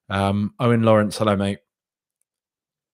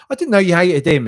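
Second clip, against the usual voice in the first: mock surprise; 10 semitones higher, 9 dB louder than usual. Real, not acted. Teasing a commenter.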